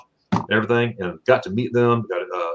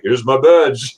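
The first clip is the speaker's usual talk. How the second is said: mock a strong German accent, a bit louder; 5 dB louder, slower than usual. Retired deputy showing off her badge, imitated strong German accent. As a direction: put on a thick German accent. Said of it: "she has the full strong accent".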